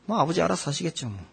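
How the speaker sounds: fast, shrugging mutter; sullen son. Retold or imitated. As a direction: brush it off quickly. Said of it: "왜요?".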